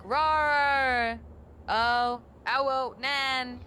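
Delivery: high, loud cutesy uwu squeal. Pretend. AI going full uwu for chat, squealing cutesy. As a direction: ham up the uwu cat-girl act. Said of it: "go full on U W mode".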